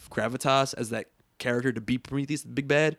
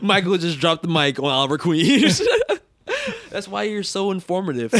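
laughing; 6 semitones higher, 4 dB louder than usual. Real, not acted. Laughing at friend's rant.

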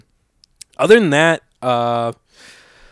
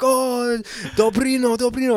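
high, delighted foreigner's reply; lit up; 11 semitones higher than usual. Retold or imitated. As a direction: imitate a man lighting up at a greeting. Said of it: "he lit up".

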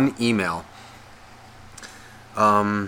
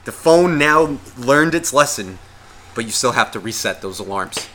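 calming self. Retold or imitated. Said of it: "I have to calm myself down".

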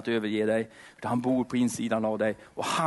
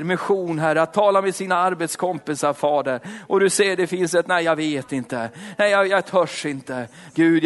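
rising, pleading prayer voice, louder on each call to the Lord; fervent prayer; 3 semitones higher, 4 dB louder than usual. Acted. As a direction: pray it out with passion, calling Herre between phrases. (innerlig, brinnande bön)

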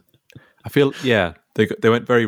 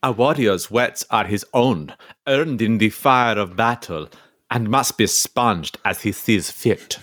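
Viking voice. Acted. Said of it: "I'll be Ivor".

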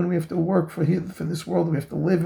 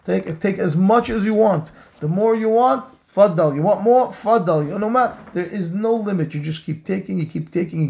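excited urging; 4 semitones higher than usual. Pretend. Sermon climax, host offering more.

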